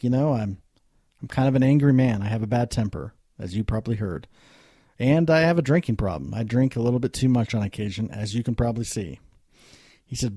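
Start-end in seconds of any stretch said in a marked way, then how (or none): 0.0-9.2 tags 1. Retold or imitated. Drunk businessman voiced in story.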